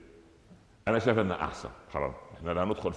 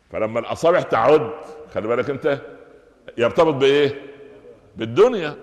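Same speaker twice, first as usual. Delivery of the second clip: louder, rising warning; emphatic warning; 3 semitones higher, 6 dB louder than usual. Real, not acted. Preacher warning the congregation about counting money, loud. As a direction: press the point home forcefully.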